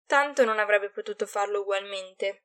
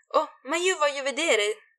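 whiny little voice; 6 semitones higher, 3 dB louder than usual. Acted. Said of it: "con vocetta lamentosa".

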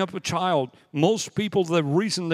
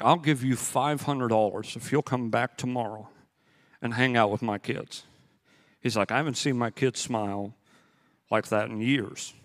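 low, softer confiding voice; earnest dad; 5 semitones lower, 4 dB quieter than usual. Retold or imitated. Dad pulls a young man aside about his kids, earnest. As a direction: retell a father's quiet, heartfelt offer.

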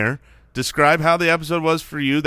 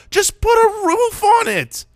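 high exasperated plea; 4 dB louder, slower than usual. Real, not acted. Exasperated plea about domes.

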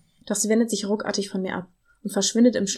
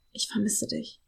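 voice breaking; 4 dB quieter than usual. Acted. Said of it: "wie seine Stimme bricht".

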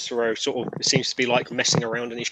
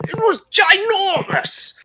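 breathless whisper, much higher and slow; awed whisper; 9 dB louder, much slower than usual. Acted. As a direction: whisper it with wide-eyed awe. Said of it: "Cicero going".

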